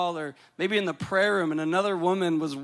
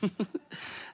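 soft breathy laugh; 8 dB quieter than usual. Real, not acted. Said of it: "be able to read this".

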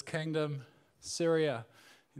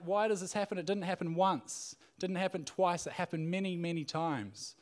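mildly indignant retold king, higher pitch; a touch of mock anger, pitched up; angry king; 4 semitones higher than usual. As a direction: lightly act out a king's exasperation. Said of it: "the king of Syria is angry".

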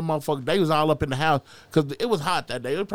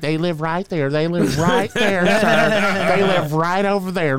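put-on frightened old couple; 3 semitones higher, 6 dB louder than usual. Old white couple pointing out neighbors.

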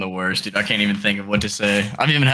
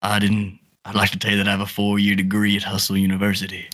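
put-on improvised girlfriend's dad with an uncertain country accent; lightly put-on rural accent. Dad questioning his daughter's boyfriend, in a put-on country accent. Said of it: "no idea what this accent is".

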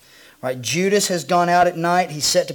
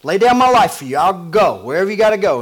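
louder insistent vow; a touch of Peter protesting; 5 dB louder, faster than usual. Acted. Peter insisting to Jesus he will die for him, mildly louder. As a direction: plead your loyalty. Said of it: "Peter's not having any of it".

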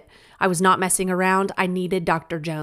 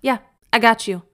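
super casual. Retold or imitated. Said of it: "said super casually".

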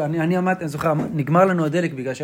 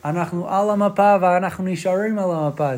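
imitating an American accent in Hebrew; Tal Brody's American accent. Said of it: "מעניין שמישהו עם מבטא אמריקאי אמר אותו". (מבטא אמריקאי בעברית)

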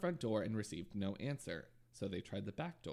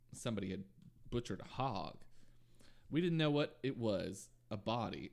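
police quote with a Southern twang; southern accent. Acted. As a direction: read it like a Houston officer, lightly Southern. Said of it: "you gave it a southern accent".

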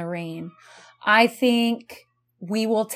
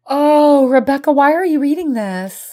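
aghast; 7 semitones higher, 8 dB louder than usual. Real, not acted. Aghast at book choice.

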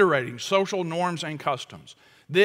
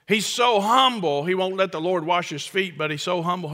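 mock praise. Real, not acted. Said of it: "that sounds like humility, but it's actually pride".

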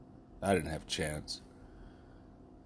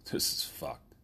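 whisper; 7 semitones higher, 4 dB quieter, slower than usual. Real, not acted. Aside after bond refused.

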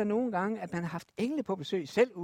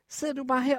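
mild annoyance; 3 semitones higher than usual. Acted. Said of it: "virkelig irriteret".

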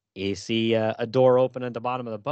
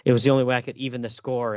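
excited retelling; 2 semitones higher, 6 dB louder, faster than usual. Real, not acted. Excitedly retelling dying Robin's line.

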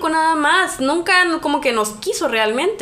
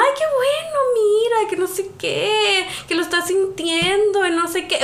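touched mother; 4 semitones higher than usual. Retold or imitated. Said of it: "Y mi mamá".

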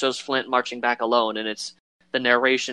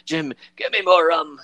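put-on louder gruff old pirate call; Billy Bones yelling for rum; gruff pirate demand; 4 semitones higher, 4 dB louder than usual. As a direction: bark for rum like a drunk sailor. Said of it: "Billy Bones is like".

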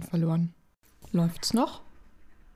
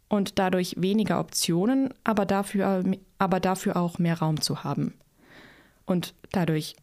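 heiser. Real, not acted. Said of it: "jetzt bin ich heißer".

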